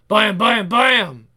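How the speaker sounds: loud voiced gunfire; comic-book bangs; imitated gunshots. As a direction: punch out each shot loudly.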